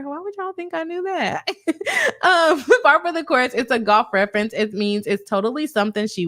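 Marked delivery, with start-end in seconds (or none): 0.0-1.6 soft, higher laughing question. Real, not acted. Laughing at her own confusion. 2.2-3.5 louder, laughing through the phrase. Real, not acted. Laughing at her own confusion.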